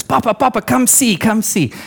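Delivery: put-on excited little boy. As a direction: lightly imitate a child begging Papa over. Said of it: "he's just so excited to see me".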